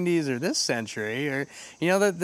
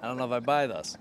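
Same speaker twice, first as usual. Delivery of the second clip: skeptical Arnold; 4 semitones lower, 6 dB quieter than usual. Retold or imitated. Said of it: "a skeptical look about".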